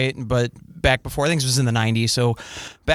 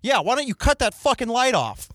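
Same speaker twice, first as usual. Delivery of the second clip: called out; 8 semitones higher than usual. Retold or imitated.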